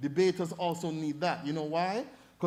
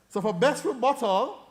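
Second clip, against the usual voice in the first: louder announcement; 5 semitones higher, 8 dB louder than usual. Real, not acted. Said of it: "announcing results".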